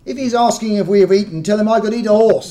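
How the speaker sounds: a touch of a cheery Cockney; hungry and cheeky, lightly done; lightly voiced Cockney soldier. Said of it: "said Sparks".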